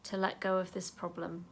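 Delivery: calm self-talk while tapping; gentle affirmation. Shown as a demonstration. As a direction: say it tenderly to yourself. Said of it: "I'm gonna tap there and say".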